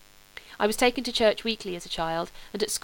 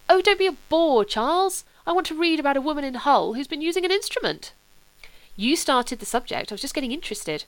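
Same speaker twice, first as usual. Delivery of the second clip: higher, bored and petulant; petulant young Sebastian; 5 semitones higher, 4 dB louder than usual. Acted. Sebastian cuts off Charles, lightly petulant and higher. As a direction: brush him off like a spoilt boy.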